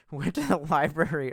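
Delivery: library said the Boston way, with a laugh; Boston accent. Shown as a demonstration. Retelling the Boston trip, a laughing Boston accent. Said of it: "or the library".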